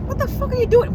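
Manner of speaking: retold yell, pitched high; high mock yell. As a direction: shriek it at him.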